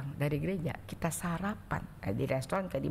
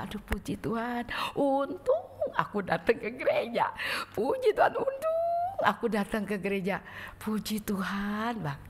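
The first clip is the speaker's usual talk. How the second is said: relieved joy. Retold or imitated. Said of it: "Sehingga pulang kerja".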